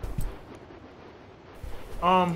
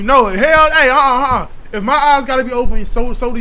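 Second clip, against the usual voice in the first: panicked outburst; 5 semitones higher than usual. Real, not acted. Scared in horror game.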